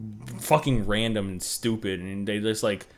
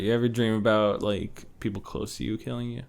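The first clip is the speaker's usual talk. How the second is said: creepy horror delivery; 2 semitones lower, 7 dB quieter than usual. Acted. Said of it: "the delivery of that was actually terrifying".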